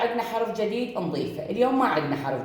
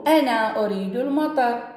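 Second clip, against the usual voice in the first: put-on child's line; 5 semitones higher than usual. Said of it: "هذا الولد يقول".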